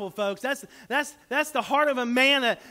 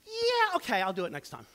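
mock putting it off. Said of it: "just to go".

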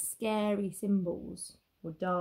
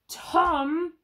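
villagers calling out; 7 semitones higher, 7 dB louder than usual. Acted. Villagers scolding Tom.

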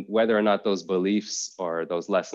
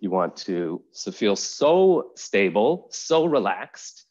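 guided meditation; 3 semitones higher than usual. Acted. Yoga teacher settling students in to practice, guided meditation voice. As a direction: guide listeners unhurriedly into rest.

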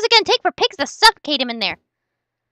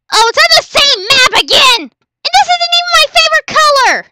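high, loud whiny protest; hammed-up gripe; mock complaint; 6 semitones higher, 6 dB louder than usual. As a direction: complain with exaggerated outrage.

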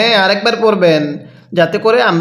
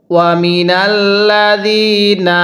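Quran recitation. Shown as a demonstration. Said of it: "কিভাবে পড়ব?".

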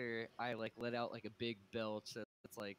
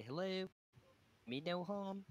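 friendly greeting voice; 6 semitones higher than usual. Pretend. Player speaking in character to creatures.

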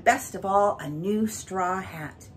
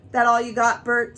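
bright and cheery, a touch louder; 5 semitones higher, 8 dB louder than usual. A narrator's reading. Mary hiding her disappointment from Bert, bright. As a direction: hide disappointment behind brightness. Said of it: "said it so brightly".

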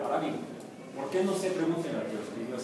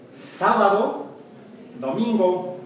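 sábado slow and drawn out, then domingo, counted up loud; counting days out loud; 5 semitones higher, 5 dB louder, much slower than usual. Shown as a demonstration. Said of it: "counting days to resurrection".

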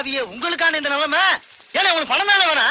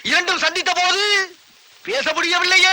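melodramatic recitation. Acted. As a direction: draw out each phrase like a tragic poem. Recites sentimental parable in formal Tamil. (நாடகத்தனமாக வசனம் பேசுதல்)

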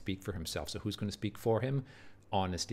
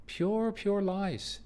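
high and drawn out very slowly, each word weighted; scornful emphasis; 10 semitones higher, much slower than usual. Real, not acted. Teacher to class, scornfully branding Iago's words lies. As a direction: spit out the verdict on his lies.

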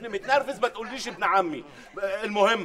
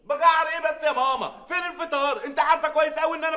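angry retort; 5 semitones higher than usual. Acted. Son yelling at mother over breakfast.

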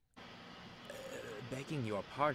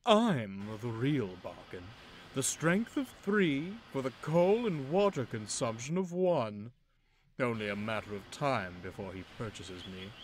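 boastful engine; 6 dB louder than usual. Acted. Loaned engine bragging about himself, boastful. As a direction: sell yourself like a bargain.

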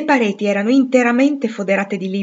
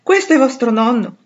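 high, louder startled cry; alarmed exclamation; 6 semitones higher, 6 dB louder than usual. A narrator's reading. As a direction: jump up in a fluster. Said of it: "Joe balzò in piedi esclamando".

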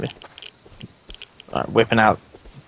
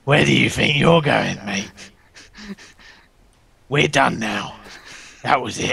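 Bane-like voice. Pretend. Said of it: "Why do you sound like Bane?".

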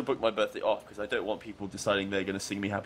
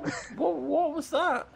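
surprised. Real, not acted. Sudden surprise at game event.

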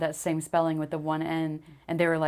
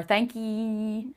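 imitated Southern accent; 4 semitones higher than usual. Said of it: "Southerners put extra vowels in this stuff".

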